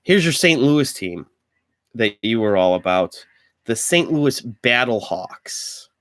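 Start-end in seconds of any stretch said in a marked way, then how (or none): 3.7-5.9 announcer voice. Pretend. Announcing team names.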